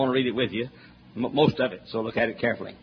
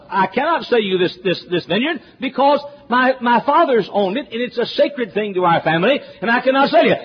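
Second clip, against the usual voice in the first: pleading Naboth; 7 semitones higher than usual. Retold or imitated. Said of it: "All he said was".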